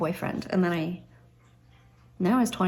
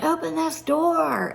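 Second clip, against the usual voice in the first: higher, slowed mock yell from dad; imitated yell; 8 semitones higher, slower than usual. Dad pounding on the door, a mild mock yell, higher and slow. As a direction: bark it like an angry dad at the door, but mild. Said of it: "and he was yelling".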